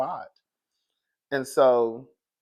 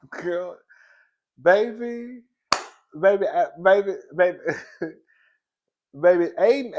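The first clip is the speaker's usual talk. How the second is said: excited calls; 5 semitones higher, 7 dB louder than usual. Real, not acted. Excited gossip about Aiden.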